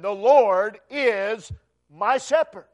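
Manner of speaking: slow, firm, certain declaration; great conviction. Shown as a demonstration. Preacher showing David's conviction to the congregation, slow and certain. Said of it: "He says with great conviction".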